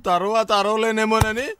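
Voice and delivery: slow, drawn-out mock wail; wailing in advance. Son crying out before his father hits him, drawn-out wail. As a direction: stretch it out like a pre-emptive cry. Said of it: "ఏంటి నాన్న ముందే అరుస్తున్నావు".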